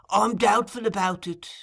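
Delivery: sighing doubt. Acted. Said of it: "replied Fagin with a sigh".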